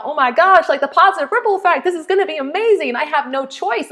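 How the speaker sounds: high, rushed burst of enthusiasm; excited realization. Retold or imitated. Coach reliving the thought of helping people, excited.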